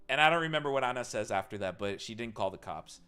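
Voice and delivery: ordinary talk, nothing marked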